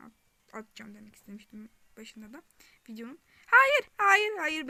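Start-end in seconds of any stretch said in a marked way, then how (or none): 3.5-4.7 loud high panicked no; frantic screaming; panicked shouting. Real, not acted. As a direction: scream no as it grabs you. Enemy about to eat her.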